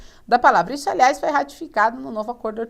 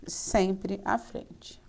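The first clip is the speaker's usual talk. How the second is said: very slow, low, soft repetition; hushed, drawn-out teacherly reminder; slow emphasis; 4 semitones lower, 10 dB quieter, much slower than usual. Real, not acted. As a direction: let the rule sink in, unhurried. Teacher repeats the rule slowly.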